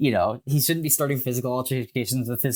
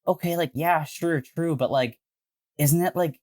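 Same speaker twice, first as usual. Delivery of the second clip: incredulous excitement; 3 semitones higher than usual. Retold or imitated. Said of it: "And I'm like".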